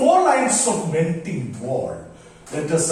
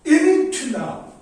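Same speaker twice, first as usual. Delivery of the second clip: "Int" unstressed, "now" as the beat; stress on second syllable; 11 semitones higher, 3 dB louder than usual. Shown as a demonstration. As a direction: split the iamb, leaning on "now" after "Int". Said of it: "laugh stressed".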